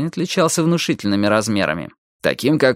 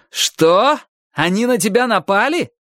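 high, incredulous question; outraged disbelief; 10 semitones higher, slower than usual. A narrator's reading. Майки learns his friend was attacked, outraged. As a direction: let shock and anger lift the voice.

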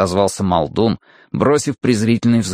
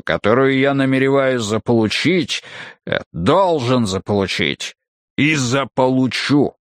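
rumbling brute; 3 semitones higher than usual. Acted. Muldoon's speech.

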